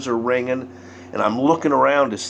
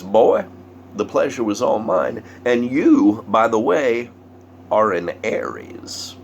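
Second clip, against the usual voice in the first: mystic pronouncement; 2 semitones higher than usual. Retold or imitated.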